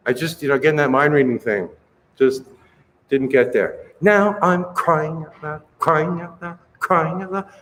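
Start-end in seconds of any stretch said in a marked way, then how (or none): 4.0-7.5 hard C on CRYING, the rest light; more C. Shown as a demonstration. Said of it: "More C and less of everything else".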